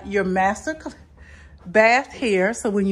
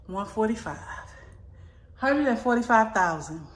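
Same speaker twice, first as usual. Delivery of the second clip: a breathy whisper of the price; 4 dB quieter than usual. Real, not acted. Telling viewers the home's price in a whisper. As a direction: confide the number like a secret. Reveals the price in hushed tones.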